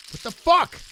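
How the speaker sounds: sudden high yelp of disbelief; shocked outburst. Real, not acted. Player stunned when opponent folds, high shocked yelp. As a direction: blurt it out, stunned.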